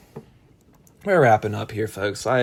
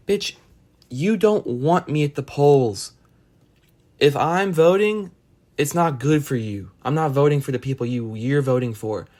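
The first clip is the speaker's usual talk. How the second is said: exasperated rant; 3 semitones higher, 4 dB louder than usual. Retold or imitated. Ranting at a coworker who keeps pushing to vote, raised and exasperated. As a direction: tell her off, each word hammered.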